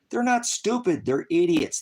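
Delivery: high, loud scornful jab; loud sneer. Real, not acted. Streamer sneering at chat, loud and high.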